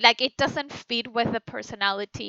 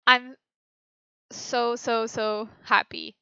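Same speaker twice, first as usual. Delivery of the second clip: relieved happiness. Shown as a demonstration. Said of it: "One has the subtext of".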